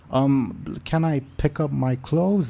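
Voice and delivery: a touch of startled unease. Acted. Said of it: "very startled and says".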